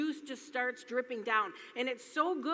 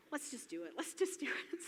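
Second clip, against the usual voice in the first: hushed, half-whispered dare; conspiratorial whisper; 8 dB quieter than usual. Retold or imitated. Urging her friends at the spa, in a conspiratorial whisper. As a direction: whisper it like a naughty secret plan.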